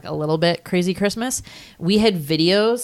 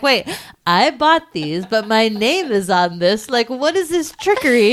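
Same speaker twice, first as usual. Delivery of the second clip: put-on confused kid; 4 semitones higher, 3 dB louder than usual. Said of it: "You're like".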